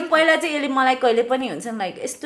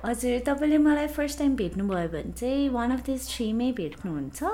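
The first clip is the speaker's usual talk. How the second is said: customer service voice. Shown as a demonstration. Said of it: "This is my customer service voice".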